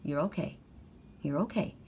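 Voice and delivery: gentle, hushed comfort with a little lift at each end; soothing reassurance. Retold or imitated. Owner soothing the upset cat at parting, softly reassuring. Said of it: "I look down at him, and I said".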